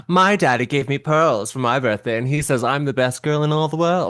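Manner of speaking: lightly voiced bragging daddy's girl; mild mock boast, little-rich-girl style. Co-host imitating the girl showing off her pearls, mock bragging. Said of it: "What a weird brag".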